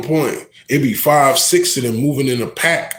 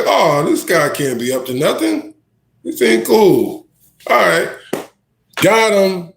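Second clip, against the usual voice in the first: naive inner thought; 6 semitones higher than usual. Retold or imitated. Voicing his own fooled past thoughts.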